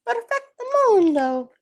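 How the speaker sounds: silly high voice. Pretend. Admiring her nail flowers, a silly high sing-song. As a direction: toss it off like a goofy jingle. Playful fake Spanish over nails.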